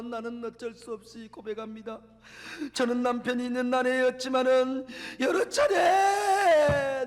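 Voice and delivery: wife weeping her confession. Retold or imitated. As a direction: confess through tears, ashamed. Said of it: "울며 울며 또 고백하는".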